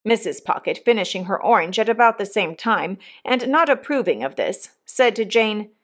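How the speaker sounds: usual speaking voice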